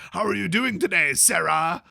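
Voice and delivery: lightly voiced cheery game shopkeeper elf. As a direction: greet the customer like a stock NPC. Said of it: "they're like".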